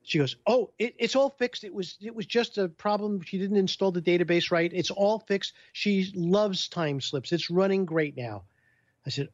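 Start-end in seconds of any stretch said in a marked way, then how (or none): 0.5-8.4 high, bright happy report; happy helper voiced higher; cheerful Ann. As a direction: tell him the good news, beaming.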